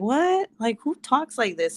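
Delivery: high rising, incredulous "what?"; baffled. Retold or imitated. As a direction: act out mock disbelief at odd words. Retelling her bafflement at class.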